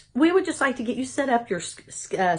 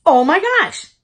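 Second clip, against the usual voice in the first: shocked gasp; 7 semitones higher, 8 dB louder, slower than usual. Real, not acted. Realising the tumor is real.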